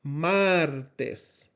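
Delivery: "Martes" with drawn-out, clear Spanish vowels; clear vowel sounds. Shown as a demonstration. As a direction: say "Martes" slowly, each vowel pure. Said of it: "Remember those vowel sounds".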